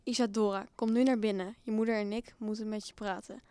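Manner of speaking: loud, stern father's call; shouting. A narrator's reading. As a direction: call out sharply as a cross parent. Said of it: "schreeuwde hij".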